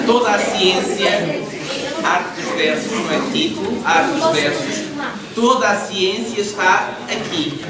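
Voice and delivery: a touch of recital. Shown as a demonstration. Teacher mock-recites the poem's opening to the class, slowly. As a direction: declaim the line slowly with a laugh. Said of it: "teacher shows reading of the line".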